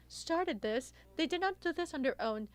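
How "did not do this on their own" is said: muffled by a face mask; through a face mask. Real, not acted. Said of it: "I'll remove my face mask to ensure that you're able".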